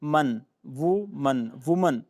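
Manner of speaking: "वो मन" slow, then "वुमन" with rounded u; pesh vowel demo. Shown as a demonstration. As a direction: stretch the vowel and then close it as woo-man. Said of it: "वो के ऊपर पेश वाला sound".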